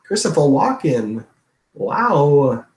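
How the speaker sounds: slow, swooping actor impression; halting, wondering singsong; Christopher Walken. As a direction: draw out the name with a lilt. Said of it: "I'll do a Christopher Walken for you".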